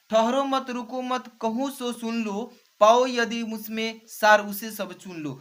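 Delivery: slow, measured reading of Hindi verse; unhurried classroom verse reading; poem recitation. Acted. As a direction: read the lines out like a teacher reciting a set poem. Recites the exam verse aloud.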